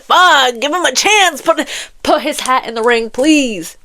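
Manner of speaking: high-pitched mock pleading; exasperated plea. Fan begging the book to give him a chance, exasperated plea.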